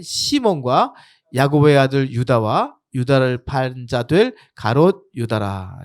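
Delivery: slow, measured Bible reading; scripture reading. Acted. Pastor leading the congregation through the disciples' names, measured scripture reading. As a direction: read the list of names out deliberately, slowly. Reads the scripture passage aloud.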